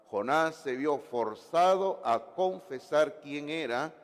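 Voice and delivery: forzado drawn out, slow and emphatic; stress on forzado. Shown as a demonstration. Pastor stressing forzado to the congregation, slow and emphatic. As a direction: lean hard on forzado and slow the whole line down. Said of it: "voy a remarcar la palabra forzado".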